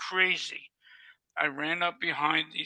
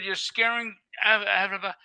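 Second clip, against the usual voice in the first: retold outburst; 3 semitones higher, 4 dB louder than usual. Caretaker confronting the firemen flooding the house, alarmed and loud. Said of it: "I said".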